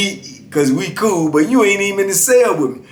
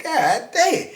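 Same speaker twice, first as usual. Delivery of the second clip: exasperated; 12 semitones higher, 3 dB quieter than usual. Retold or imitated. Narrator loses again.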